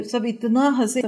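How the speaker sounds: slow, drawn-out stress on "اتنا"; exaggerated emphasis. Shown as a demonstration. Teacher demonstrates people exaggerating, slowly stretching "اتنا". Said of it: "بعض دفعہ exaggeration بھی ہوتی ہے".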